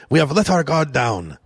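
hammed-up bad French accent; mock the politician in a rough French accent; terrible French accent. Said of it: "that's a terrible French accent".

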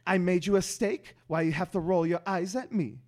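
loud, high, exaggerated dad voice; dad impression. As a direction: play an exasperated, hammed-up dad. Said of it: "So my dad would sound like".

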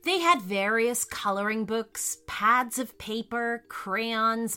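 gentle bedtime story voice; storytelling narration. A narrator's reading. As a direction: read it like a children's story. Reads story to children.

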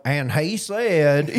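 slow Southern drawl, words stretched; lightly hammed-up Southern reading. Schoolboy reading aloud in class, slow Southern drawl. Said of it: "got that Southern drawl".

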